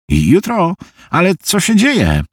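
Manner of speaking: rising concern in a friend's voice; worried friend. Acted. Harvey senses trouble on the phone, worried.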